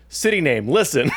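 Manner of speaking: mock orator calling the town to listen; rousing speech opener. Shown as a demonstration. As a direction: parody of a grand speech opening. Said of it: "inspiring speech that starts out with".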